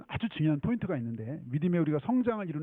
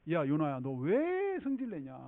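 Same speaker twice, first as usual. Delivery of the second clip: lightly teasing reproach; mock-gentle chiding; slower than usual. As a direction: chide like a patient parent, stretching the question. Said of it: "하나님 요나한테 굉장히 그 아주 젠틀하게".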